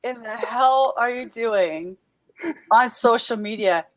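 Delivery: an annoyed friend scolding her to get off social media; retold scolding. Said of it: "She was so pissed".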